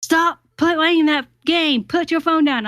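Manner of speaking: high-pitched mock yell, imitating exasperated scolding; retold yell, drawing out the order to stop; Shaggy yelling. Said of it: "Shaggy would yell at me".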